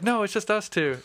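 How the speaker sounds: put-on high-pitched girl's answer; imitated young woman. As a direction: lightly mimic a young woman replying. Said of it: "she's like".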